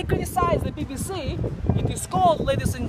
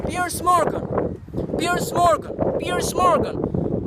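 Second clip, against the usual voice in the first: mocking call; 3 semitones higher, much slower than usual. Real, not acted. Calling out Piers Morgan.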